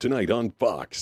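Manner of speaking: promo announcer voice with slight push. A voice actor who does promos demonstrating his promo style, with a little push. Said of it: "there's a little bit of push to it".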